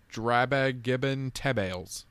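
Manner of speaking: Drabag Gibbon Tebales with ub inserted; Ubby Dubby talk. Shown as a demonstration. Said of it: "Dragon Tales is".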